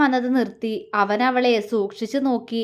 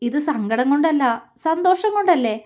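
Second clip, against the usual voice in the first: smiling; 3 semitones higher than usual. Acted. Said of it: "അവൾ ചിരിയോടെ ചോദിച്ചു".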